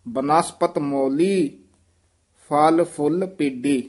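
ਫੁੱਲ said tight and firm. Shown as a demonstration. Teacher modelling a firmly pronounced ਫੁੱਲ. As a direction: press the ਫੁੱਲ sound hard. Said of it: "ਫੁੱਲ ਕਸ ਕੇ ਬੋਲਣਾ".

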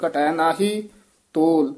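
ਨਾਹੀ clipped with a catch, then a break before ਤੋਲ; a short stop on ਨਾਹੀ. Shown as a demonstration. Teacher demonstrating recitation, a catch on ਨਾਹੀ. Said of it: "ਨਾਹੀ ਪਦ ਤੇ ਠਮਕ ਲੱਗੇਗੀ".

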